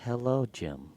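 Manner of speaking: lightly mimicked voice assistant, slowing at the end; measured, stilted virtual DJ. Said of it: "Do you use the normal Siri voice?".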